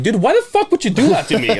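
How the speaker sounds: high, laughing mock outrage; high-pitched laughing complaint to the uncle. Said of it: "I'm like".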